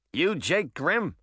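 high, slow squeaky little critter; squeaky rabbit. Acted. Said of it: "the rabbit squeaked".

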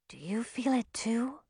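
soft unvoiced whisper. Milly asking Zoe if she senses a watcher, whispered. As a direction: breathe it, barely a sound. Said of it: "Milly whispered".

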